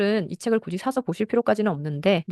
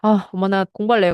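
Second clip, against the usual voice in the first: lightly voiced child, louder and eager; 6 dB louder than usual. Child telling mom of a decision, eager. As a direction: play a child piping up to a parent. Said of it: "그러다가 애가".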